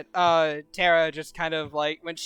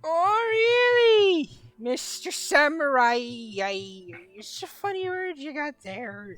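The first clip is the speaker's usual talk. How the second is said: mock disbelief; 8 semitones higher than usual. Drunk Tara mocks the samurai.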